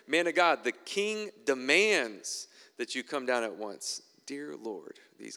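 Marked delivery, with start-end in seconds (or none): 0.1-4.0 demanding captain. Acted. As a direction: bark the order slowly down the hill. Second captain demands Elijah come.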